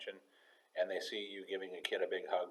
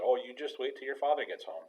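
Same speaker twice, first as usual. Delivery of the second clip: parent impression; 5 semitones higher, 4 dB louder than usual. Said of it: "mom said".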